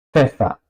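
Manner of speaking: "Pfeffer" with P and F as one onset; joined PF. Shown as a demonstration. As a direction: say "Pfeffer" with PF fused, no vowel between. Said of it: "se pronuncia como". ("Pfeffer" con PF juntas)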